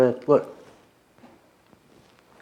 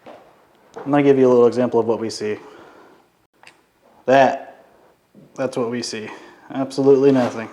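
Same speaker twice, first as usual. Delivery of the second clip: whistling nose. Real, not acted. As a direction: let the nose whistle on each breath. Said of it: "Your nose is whistling".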